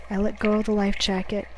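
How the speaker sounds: ordinary delivery, nothing marked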